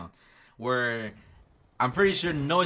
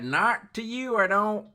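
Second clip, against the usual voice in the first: higher, louder mock refusal; hostile stranger; 8 semitones higher, 4 dB louder, slower than usual. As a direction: brush off the customer with scorn. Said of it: "He's like".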